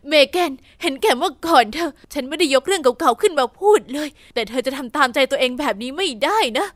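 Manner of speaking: a restrained stepmother's angry telling-off; mild shout. Acted. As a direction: scold her firmly but understated. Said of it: "เอมม่าตะโกนว่า".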